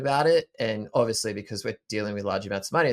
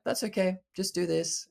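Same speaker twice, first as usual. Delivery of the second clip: much higher, gently voiced reassurance; calm, compassionate inner voice; 9 semitones higher than usual. Inner voice answering after being ignored, calm and compassionate. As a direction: lightly act out a kindly inner voice. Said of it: "calmly and compassionately".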